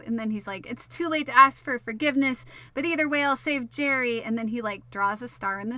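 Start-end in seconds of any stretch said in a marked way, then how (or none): 0.7-4.2 imitated defiant declaration, pitched up; mock heroic. Beezy vowing to save Jerry, mock heroic. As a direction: declare it like a cartoon hero, a bit louder.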